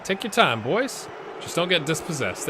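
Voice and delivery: calling out to the players, high; yelling from the sidelines. Real, not acted. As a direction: shout encouragement at the screen. Coaching players through the screen.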